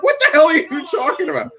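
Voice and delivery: high mock bewildered stranger; confused troll voice. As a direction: squeal it like a baffled troll. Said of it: "They're like".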